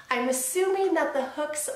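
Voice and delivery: lip pulled aside by hand; talking while showing teeth; fingers in mouth corner. Real, not acted. Seen 1: Fingers at mouth corner pulling lip aside to show braces.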